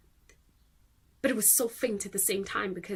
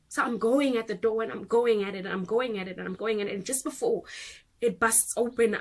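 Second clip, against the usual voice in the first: raised, driving voice; urgent retelling; 5 dB louder than usual. Acted. Parent recounts battering the locked door, urgent and loud. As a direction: build urgency with each repeated push.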